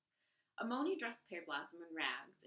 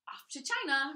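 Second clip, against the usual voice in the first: stepmother booms it louder; higher and louder, threatening; loud threat; 7 semitones higher, 10 dB louder than usual. Acted. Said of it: "her stepmother began".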